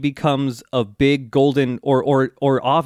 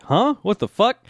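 high-pitched bewildered retelling; baffled reaction; 8 semitones higher than usual. Retold or imitated. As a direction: imitate someone utterly thrown, pitch leaping up. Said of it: "And he's like".

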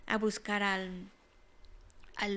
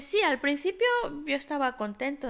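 eager swan reply; 3 semitones higher, 4 dB louder, faster than usual. Acted. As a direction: burst in eagerly. Swan answers the crow.

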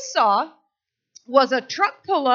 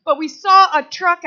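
urgent neighbors; 3 semitones higher, 6 dB louder than usual. Retold or imitated. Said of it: "And they're like".

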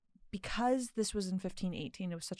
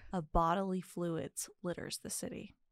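storytelling voice. Acted. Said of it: "I put on my storytelling voice".

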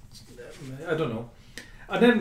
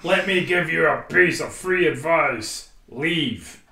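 put-on slow, deliberate New Zealand accent; menacing Kiwi bounty hunter, unhurried; 5 dB louder, slower than usual. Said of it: "is he saying that in a New Zealand accent".

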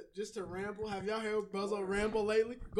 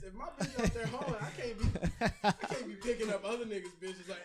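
laughing. Real, not acted. Laughing while making a joke.

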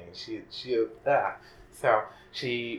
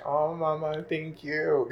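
higher, louder, overwhelmed thanks; grateful cry; 8 semitones higher, 7 dB louder, slower than usual. Retold or imitated. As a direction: gush your thanks to her. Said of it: "I was like".

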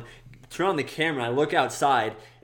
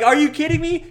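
high, loud imitation of disbelief; mock incredulous outrage; 8 dB louder than usual. Lady confronts the driver, mock incredulous yell. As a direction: yell it like an outraged woman, hammed-up.

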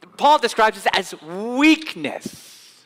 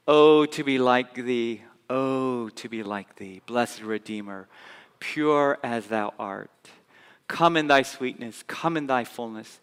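soft hymn recital; 7 semitones lower, 5 dB quieter than usual. Retold or imitated. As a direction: murmur the hymn like a prayer. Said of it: "To use the words of the old hymn".

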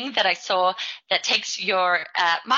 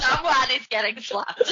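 mock threat through laughter; laughing; 4 semitones higher than usual. Real, not acted. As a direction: laugh while threatening playfully. Playful teasing threat among friends.

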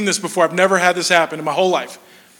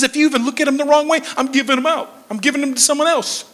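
imitated mom's warning, pitched up; mock parental threat, higher voice; mom laying down law; 5 semitones higher, faster than usual. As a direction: lay down the law like a fed-up mom. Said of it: "she lays down the law".

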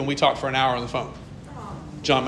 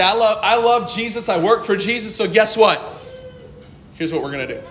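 enthusiastic; 3 semitones higher than usual. Shown as a demonstration.

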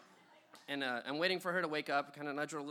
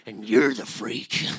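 retold comeback; 2 semitones lower, 10 dB louder, slower than usual. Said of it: "I said".

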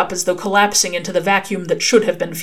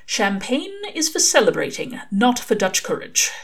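gently but firmly; 5 semitones higher than usual. Acted. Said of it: "said gently but firmly".

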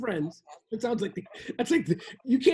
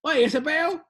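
Cuban accent; 4 semitones higher, 4 dB louder, slower than usual. Shown as a demonstration. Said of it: "you're used to the Cuban words".

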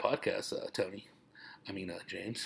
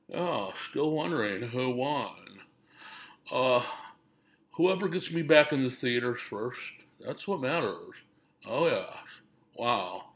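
Nicolas Cage impression. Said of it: "this is Nicolas Cage".

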